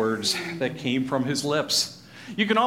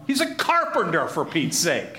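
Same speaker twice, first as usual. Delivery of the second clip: exasperated scoffing. Acted. Townspeople dismiss Jesus as a carpenter, exasperated scoffing. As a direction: scoff as if it were absurd.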